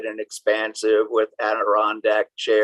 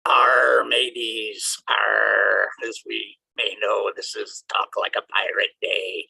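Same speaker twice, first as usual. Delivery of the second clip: pirate voice. Pretend. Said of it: "I'll stop the voice".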